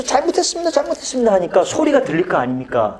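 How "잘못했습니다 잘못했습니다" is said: shouted apology. Retold or imitated. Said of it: "고함 지르면서".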